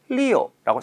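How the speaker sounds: 리오 with a light o glide, not 리우; with o sound. Shown as a demonstration. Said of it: "리우라고 발음하는 것이 아니라".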